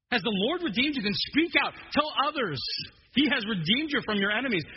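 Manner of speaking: verse proclaimed high and loud; preaching it out with force. Shown as a demonstration. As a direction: call it out like a charge. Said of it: "It's, it's like".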